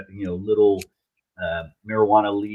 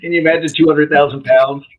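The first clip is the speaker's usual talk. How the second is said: amazed; 6 semitones higher, 12 dB louder than usual. Real, not acted. Amazed at the huge number.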